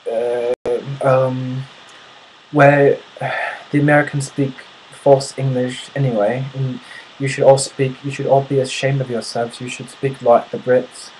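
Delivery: sigh, then scold in a mock British accent; British heckler. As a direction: imitate a haughty Brit lecturing Americans. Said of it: "he looks at me, says".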